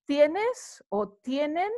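"¿Tienes?" then "tienen?" both ending on a clear rise; rising question tune. Shown as a demonstration. Teacher reviewing shop questions for learners, rising at the end. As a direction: ask "¿Tienes?" with the voice going up at the end. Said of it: "you will go up at the end".

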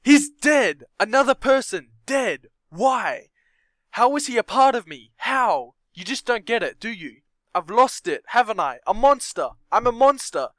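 loud, high furious shouting; anguished acted fury; raging outburst. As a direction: rage at the companion. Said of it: "rage fire blazing in your eyes".

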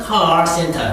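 car in 카 센터 with a curled r; 미국식 카 센터; American car center. Shown as a demonstration. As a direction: roll the tongue back on 카. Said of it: "미국식 영어는".

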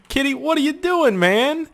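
high, cooing voice for a kitty; high sweet pet voice; cat baby talk. Pretend. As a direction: coo at the cat like a pet owner.

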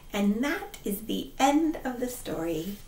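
whispered story close; soft whisper to finish; gentle whispered ending; hushed ending. A narrator's reading. Closing whisper.

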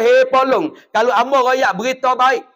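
a mild mock call of a scornful uncle; lightly voiced jeering uncle; Abu Lahab. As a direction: call out mockingly to the crowd. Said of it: "Pak saudara nama Abu Lahab".

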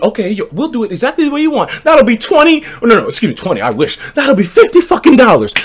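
salon clerk. Retold or imitated. Salon telling the customer the steep price, high and mock. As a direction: play the salon naming the price.

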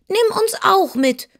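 high-pitched pleading little pig; squealing piglets. A narrator's reading. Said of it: "schrien die neun winzigen Ferkel".

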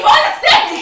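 loud demand. Acted. Demanding release.

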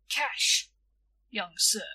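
firm, weighty no; heavy. Acted. Shopkeeper refusing credit to boy, mildly heavy. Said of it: "said Mister Moss heavily".

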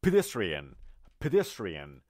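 pedestrian stressed on -des-; teacher modelling pedestrian; correct pronunciation. Shown as a demonstration. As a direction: repeat pedestrian carefully for the class.

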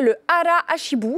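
"Hara Hashibu" said the Japanese way, syllable by syllable; a French speaker carefully sounding out "Hara Hashibu" in Japanese; "Hara Hashibu" tried with a Japanese accent, apologetically; Japanese pronunciation. Shown as a demonstration. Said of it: "désolée pour mon accent".

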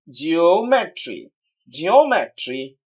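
"জিওমেট্রি" slowly, stress on ও; stress on third-last. Shown as a demonstration. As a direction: draw out ও in "জিওমেট্রি". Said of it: "third from the last syllable". ("জিওমেট্রি"-র ও-তে ধীরে জোর)

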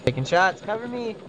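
cover me shout. Real, not acted. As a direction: yell for cover under fire. Under fire, calling for cover.

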